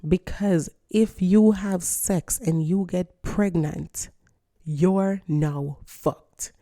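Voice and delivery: slow explanation. Shown as a demonstration. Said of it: "then I'm gonna say it in English".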